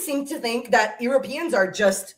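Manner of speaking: worked-up rant. Real, not acted. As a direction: lose your cool mid-argument. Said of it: "I need to calm down".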